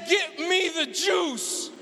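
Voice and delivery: slow, growling demand; demanding wife in labor. Retold or imitated. Wife in labor ordering husband, slow menacing demand. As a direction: order it slowly, through pain.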